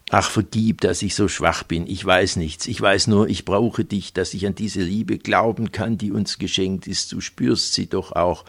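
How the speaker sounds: a hint of a pleading seducer of the cloth; pious preacher. Preacher sweet-talking Silke on the sofa, lightly voiced fervent pleading.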